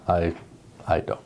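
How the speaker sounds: ordinary talk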